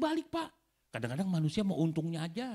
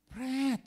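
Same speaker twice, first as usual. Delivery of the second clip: mock raspberry; 11 semitones higher, 4 dB louder than usual. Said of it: "katanya begitu".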